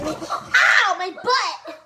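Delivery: loud ow after a fall; pained after falling. Real, not acted. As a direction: yelp from landing hard. Rammed off the couch, fell.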